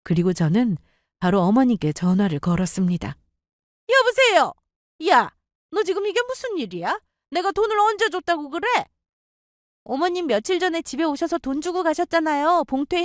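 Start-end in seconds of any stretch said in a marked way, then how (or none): 3.9-8.7 put-on high, sharp scolding older woman; angry mother-in-law. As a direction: snap at the daughter-in-law from the first word.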